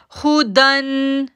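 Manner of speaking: हुदन chanted slowly with nothing stretched; slow tajweed chant; recited short. Shown as a demonstration. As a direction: recite हुदन without drawing it out. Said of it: "इसलिए हम इसको खींचेंगे नहीं".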